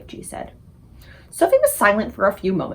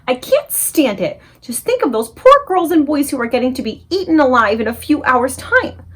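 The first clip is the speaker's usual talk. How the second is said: crying out; 5 semitones higher, 4 dB louder than usual. Acted. Sophie cries out to the BFG, loud and urgent. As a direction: demand action, voice rising. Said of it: "she stood up and cried out".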